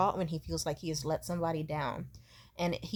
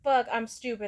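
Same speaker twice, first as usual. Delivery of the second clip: higher-pitched mock self-blame; imitated mom spiraling; 4 semitones higher than usual. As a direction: act out a mother panicking over her failings. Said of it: "she'd be like".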